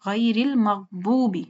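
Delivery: slow "المغضوب" with heavy d-like sound; full-mouth daad. Shown as a demonstration. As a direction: round and fill the daad in "المغضوب". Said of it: "یہ پر ہے". ("المغضوب" پُر ضاد سے، ٹھہر کر)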